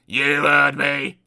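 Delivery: slow, loud snap; snapped. Acted. Mister Grumpy snapping back at Mister Happy, slow and loud. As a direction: drag out each word, cross. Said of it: "snapped Mister Grumpy".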